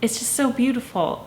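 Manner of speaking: really moved, close to crying; tearful. Real, not acted. Vlogger overwhelmed by a beautiful poem, tearful. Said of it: "I don't know why I'm crying".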